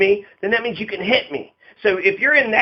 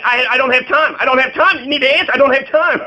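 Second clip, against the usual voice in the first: mock impatient reporter; 5 semitones higher than usual.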